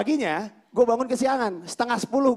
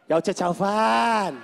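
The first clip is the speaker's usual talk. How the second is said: another tone guess; much slower than usual. Shown as a demonstration. Comedian guessing Mandarin tones again. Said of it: "Gue bilang".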